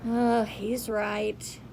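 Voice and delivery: slow sad admission; a touch of sorrow, slowly; understated sad thought; sadly. Acted. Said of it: "thought Shelley sadly".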